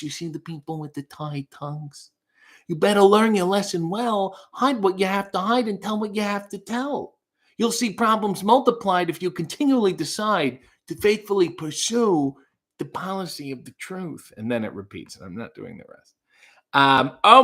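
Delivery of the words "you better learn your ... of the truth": higher-pitched theatrical recitation; dramatic reading. Shown as a demonstration. Reading song lyrics on a viewer's request, dramatic recital. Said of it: "a dramatic reading".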